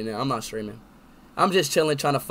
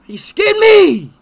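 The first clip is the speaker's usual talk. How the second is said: high, slow anguished scream; panicking gamer; 13 dB louder, much slower than usual. Real, not acted. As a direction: wail it out, stung and panicked. Speed reacts to stranger's roast.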